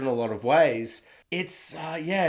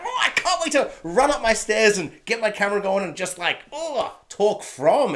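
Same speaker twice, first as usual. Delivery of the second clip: eager excitement; 6 semitones higher than usual. Retold or imitated. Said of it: "It's so exciting".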